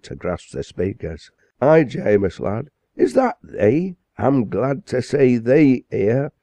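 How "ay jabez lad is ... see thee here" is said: softened greeting. Acted. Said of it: "The parson's harsh tones softened".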